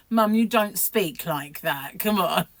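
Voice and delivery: slow, emphatic retort at mother; child's retort. Retold or imitated. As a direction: imitate a cheeky child answering back. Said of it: "that's why I say it".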